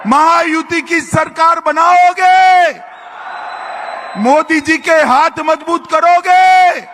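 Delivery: call-and-response political shout; rousing rally shout. Real, not acted. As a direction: demand a roaring answer from the crowd. Shouted questions for crowd to answer.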